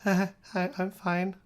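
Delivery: high, giddy little stammer; starstruck. Retold or imitated. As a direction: mimic a tongue-tied fan meeting an idol. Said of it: "I get completely starstruck".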